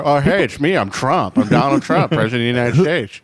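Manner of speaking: deliberately bad presidential impression; same silly slurred voice for every celebrity; Donald Trump. President introducing himself to the room, deliberately bad impression. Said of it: "Every impression I do is Caitlyn Jenner".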